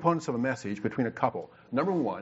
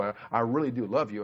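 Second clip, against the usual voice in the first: "I, I really do love you" said sincerely, leaning on "love"; mean every word of "I really do love you"; a heartfelt "I really do love you" to his wife; right tone. Shown as a demonstration. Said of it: "put the tone with it".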